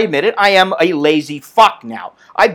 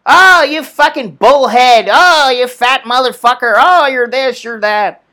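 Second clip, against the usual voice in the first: lightly voiced sneering troll insults; mocking trolls; 3 semitones higher, 3 dB louder, slower than usual. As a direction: toss off the trolls' insults in a mild mock sneer. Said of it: "I get all these trolls now".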